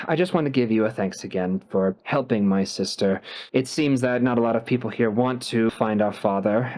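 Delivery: a hint of a courteous businessman; brother figure. GM voices brother Ruprecht.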